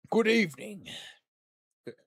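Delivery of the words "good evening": louder, higher-pitched greeting; put-on villain voice. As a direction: try out a suave vampire greeting. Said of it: "is that a good voice?".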